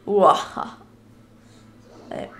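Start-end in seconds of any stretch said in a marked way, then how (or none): 0.1-0.8 wrong creature cry. Shown as a demonstration. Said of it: "mein Mi macht bestimmt nicht Uaha".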